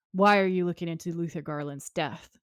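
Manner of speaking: mildly threatening quote, first word hit hard; retold threat, lightly played; mock menacing question. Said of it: "All threatening and stuff".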